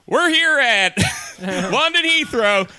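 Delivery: slow booming cabin announcement; loud pilot announcement. Pretend. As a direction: announce it over the speakers. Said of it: "if he's like".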